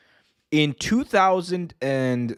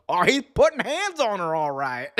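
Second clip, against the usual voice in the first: higher, snarky announcer remark; JR quip; 5 semitones higher than usual. Retold or imitated. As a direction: fire off the sarcastic comeback. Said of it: "J R, quick as a bat, goes".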